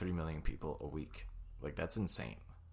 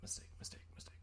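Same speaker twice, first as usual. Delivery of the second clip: fading to whisper; 6 dB quieter, faster than usual. Retold or imitated. Fading panicked repetition.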